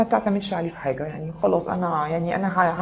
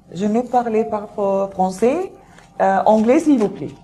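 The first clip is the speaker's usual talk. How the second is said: mock French phrase, higher and slow at the end; playful French line, pitched up; 3 semitones higher, 3 dB louder, much slower than usual. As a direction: toss off a showy bit of French. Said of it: "شفتوا الحتة الفرنش دي".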